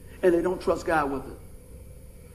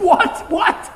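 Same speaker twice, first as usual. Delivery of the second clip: high, loud mock startled what; surprised; 10 semitones higher, 6 dB louder than usual. Preacher retelling his surprise to the friend, high. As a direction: play your own startled reaction. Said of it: "I was like".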